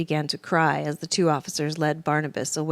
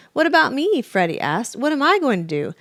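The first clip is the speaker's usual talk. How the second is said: loud, high panicky fox; panicked fox; 8 semitones higher, 6 dB louder than usual. A narrator's reading. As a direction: plead in panic.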